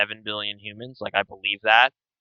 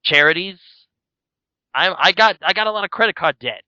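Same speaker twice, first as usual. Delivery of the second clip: higher, loud Brooklyn grumble at a charity asker; Brooklyn accent; 6 semitones higher, 3 dB louder than usual. Pretend. Brushing off charity askers in a Brooklyn accent. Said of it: "Is, is that your Brooklyn accent?".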